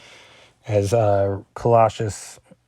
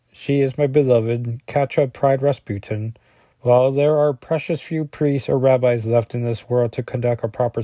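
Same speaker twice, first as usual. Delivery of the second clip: put-on Russian accent. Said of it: "This is my Russian accent".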